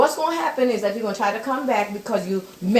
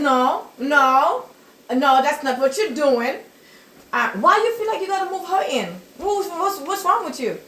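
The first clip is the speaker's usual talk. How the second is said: raised, higher scolding of a grandson; retold scolding; 5 semitones higher than usual. Grandma scolding Christopher about moving his girlfriend in, raised voice. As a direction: tell him off hotly, voice climbing.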